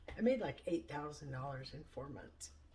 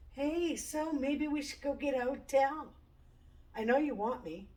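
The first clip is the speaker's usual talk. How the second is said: put-on drunk come-on; 7 semitones higher, 3 dB louder than usual. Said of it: "he's being very, very inappropriate".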